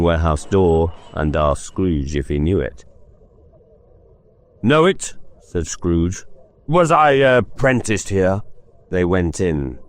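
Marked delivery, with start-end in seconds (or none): 4.6-5.1 put-on old Scrooge. Scrooge surprised. 6.7-8.4 put-on old Scrooge. Scrooge asks.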